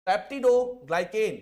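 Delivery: syllable by syllable, very slow; slow drilled term. Shown as a demonstration. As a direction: stretch peptidoglycan out so students copy it. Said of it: "teacher drills the term slowly".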